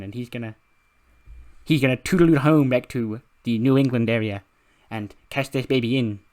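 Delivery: gleeful theatrical villain, lightly voiced; Danhausen. Danhausen celebrating his title win, mildly hammy gleeful gloating. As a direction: crow in triumph, loud at first. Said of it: "after doing the Danhausen voice".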